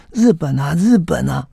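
high, breathless excited cry; breathless excitement. Retold or imitated. Reporter gasps the news to Li Youbang, high and breathless. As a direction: gasp it out, too excited to breathe. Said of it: "他说的上气不接下气".

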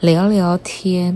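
talking around a dental retainer; words shaped by a retainer in the mouth; speaking with retainer. Real, not acted. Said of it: "用这样的声音来跟大家聊聊天".

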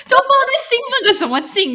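high, loud laugh through the words. Real, not acted. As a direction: laugh at your own silliness. Laughing at herself.

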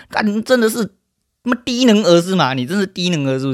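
scornful yell. Real, not acted. Streamer insulting a dim viewer, high scornful yell. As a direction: sneer it like he's an idiot.

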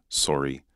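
British sorry with a rounded O; "sorry" with an O vowel, British style; British "sorry", O sound. Shown as a demonstration. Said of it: "It's more in the O sound".

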